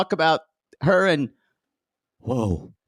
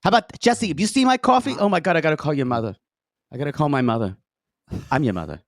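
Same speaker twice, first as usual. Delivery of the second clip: hammed-up Long Island accent, pitch dropping at the end; mock a scatterbrained woman in a Long Island accent; thick Long Island accent, played for laughs; Joanne impression. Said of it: "When she said".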